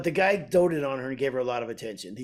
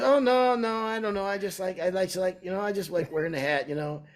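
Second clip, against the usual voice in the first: imitated apologetic owner; 5 semitones higher than usual. Restaurant owner defending his hat to a customer, high apologetic protest. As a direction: imitate a man excusing himself, voice starting high and sinking.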